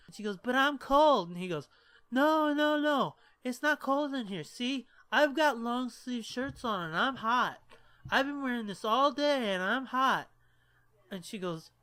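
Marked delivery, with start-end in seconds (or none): 0.4-1.3 higher pleading whine; whiny drunk girl. Retold or imitated. Drunk girlfriend insisting to boyfriend she is cold. 2.1-10.3 higher, insistent protest; exasperated drunk boyfriend. Retold or imitated. Drunk boyfriend arguing with girlfriend that it is not cold.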